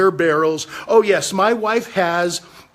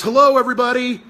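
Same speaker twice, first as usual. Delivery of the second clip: mock greeting; 4 semitones higher than usual. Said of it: "everybody say hello to the censorship police".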